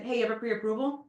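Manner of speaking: blunt question. Shown as a demonstration. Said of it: "See how nicer that sounds than".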